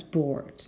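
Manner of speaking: "Bored" with an audible R; pronounced R. Shown as a demonstration. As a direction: sound the R in "Bored". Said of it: "Can you hear the difference?".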